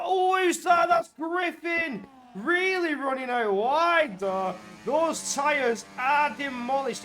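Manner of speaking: loud, high, stretched-out play-by-play; excited race commentary. Real, not acted. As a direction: call the incident with a sudden surge. Commentator reacts to car running wide.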